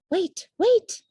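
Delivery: high, loud urgent cry; loud pleading call. A narrator's reading. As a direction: push through the crowd calling out. Mother bat pushing through crowd.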